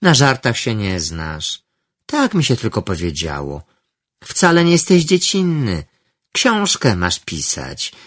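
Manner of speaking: honeyed. Acted. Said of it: "Głos Aliny płynął teraz miodem".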